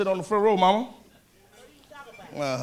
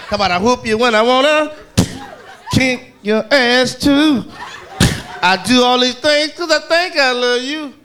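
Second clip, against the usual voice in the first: mock mother whooping; 4 dB louder, slower than usual. Mother's voice while whooping him.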